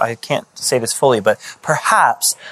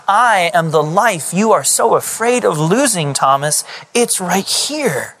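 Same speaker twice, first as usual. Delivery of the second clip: impassioned Jesus; 5 semitones higher than usual. Acted. Jesus answers Thomas, building.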